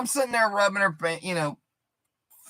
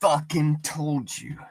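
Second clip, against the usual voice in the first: furious demand; 7 dB louder than usual. Retold or imitated. Comic retelling a woman yelling for more. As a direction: demand it, raging. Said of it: "she's like".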